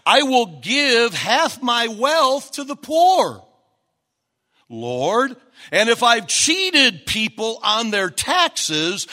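loud, slow earnest vow; Zacchaeus' pledge. Acted. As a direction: proclaim it like a repentant man. Preacher voices Zacchaeus' pledge.

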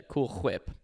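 "Whip" begins with a rasped throat sound before the W; throaty Whip. Retold or imitated. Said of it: "giving it a real throat sound".

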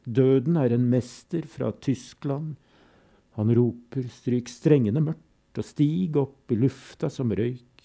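measured, grave recital with refrains; solemn poem reading. Acted. Reading Todesfuge aloud to listeners, grave and measured. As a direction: let the fugue's repetitions toll.

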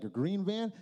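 "A green van?" rising in disbelief; echoing the friend in confusion; puzzled question. Retold or imitated. Stunned question back to friend.

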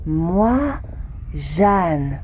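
Tarzan talk. Acted. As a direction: speak like Tarzan to an alien. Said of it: "répondre Tarzan".

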